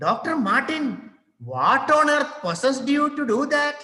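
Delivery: high, incredulous outburst; can't believe what she did; shocked husband. Acted. Husband shocked wife paid the doctor, high disbelief.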